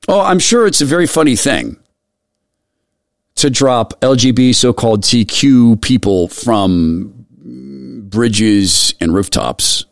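slow, dripping sarcasm; mock the idea that it's funny; sarcastic. Real, not acted. Host mocking a terror chief's sense of humor, sarcastic.

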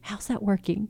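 soft, gentle prodding question. Shown as a demonstration. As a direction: ask it gently, almost teasing. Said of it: "ask you a gentle question, gently".

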